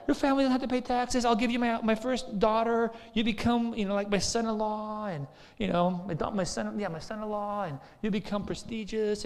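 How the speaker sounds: enticing Saul. Retold or imitated. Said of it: "trying to entice".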